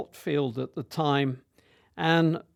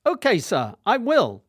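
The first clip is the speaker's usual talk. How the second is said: higher, obedient schoolboy reply; lightly voiced compliant schoolboy; younger self; 8 semitones higher, 5 dB louder than usual. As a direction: answer like a dutiful boy of fifteen. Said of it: "I said".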